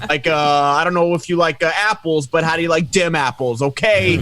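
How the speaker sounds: put-on thick Boston accent, tough guy. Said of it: "with my fucking Boston accent".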